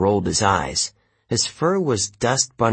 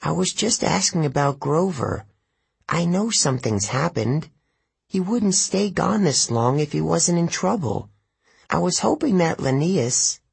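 tearful tree nymph; 7 semitones higher than usual. A narrator's reading. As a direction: plead for news of her boyfriend. Tearful dryad voiced.

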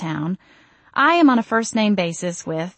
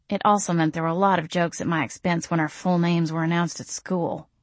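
sulky mutter; 3 dB quieter than usual. Acted. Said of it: "I muttered sulkily".

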